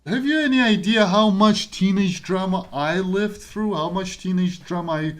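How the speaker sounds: big-sister style exclamation; animated insistence. Real, not acted. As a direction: convince her you've seen it all. Insists with older-sibling lecture.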